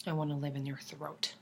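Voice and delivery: low, soft, reverent murmur; emotional awe. Acted. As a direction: say it hushed, overcome with admiration. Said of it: "I get really emotional".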